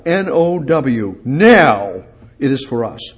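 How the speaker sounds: emphatic spelled-out "now"; spelling out now. Shown as a demonstration. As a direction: spell out "N O W" slowly, then land hard on "now". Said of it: "now is emphatic".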